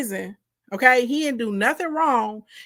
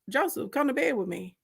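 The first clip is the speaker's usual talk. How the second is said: soft, hushed come-on; mock seductive; 7 dB quieter than usual. Potiphar's wife seducing Joseph, hushed.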